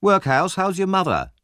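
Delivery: high-pitched bully's jeer; taunting insult. Acted. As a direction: needle him with a personal question. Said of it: "so he tried personal insults".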